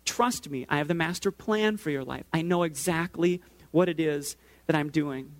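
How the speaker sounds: lightly voiced, calm, reassuring God; calm reassurance. God answers the protest calmly.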